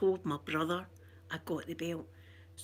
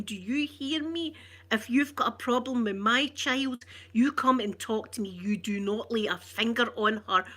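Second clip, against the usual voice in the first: angry mum. Retold or imitated. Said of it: "you want to heard her".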